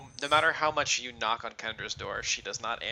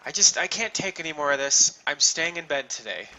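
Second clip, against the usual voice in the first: Kendra; 3 semitones higher, 4 dB louder than usual. Acted. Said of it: "you'll hear her go".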